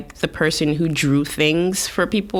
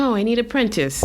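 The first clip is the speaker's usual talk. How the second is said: put-on raised pitch, heavy Russian accent on the tattoo artist; lightly done Russian accent, pitched up; hardcore Russian accent; 9 semitones higher than usual. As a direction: play the gruff Russian tattooist in a thick Russian accent. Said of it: "this hardcore Russian accent".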